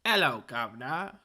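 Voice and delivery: loud, high mock Australian accent; over-the-top Australian accent done as a joke. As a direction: ham up a fake Australian accent that slipped in from Canadian. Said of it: "and then it slipped into Australia".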